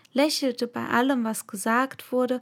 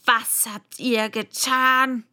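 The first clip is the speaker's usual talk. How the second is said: stern demand; 4 dB louder, slower than usual. Acted. Angry queen interrogating.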